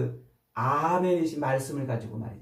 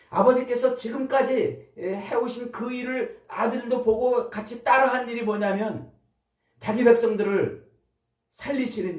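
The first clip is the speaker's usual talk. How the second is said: preaching fervor; 6 semitones higher than usual. Real, not acted. Pastor urging his congregation, raised and fervent. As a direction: drive the point home with fire.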